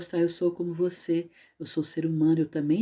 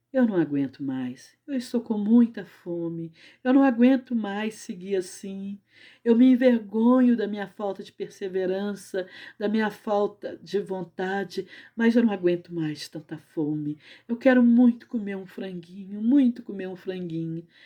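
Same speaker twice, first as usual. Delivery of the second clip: mock weepy, tearful, begging, pleading lament; 3 semitones higher than usual. Storyteller voicing a starving companion who woke crying, speaking to São Francisco; acting out a crying plea. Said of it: "um acordou de noite chorando, chorando".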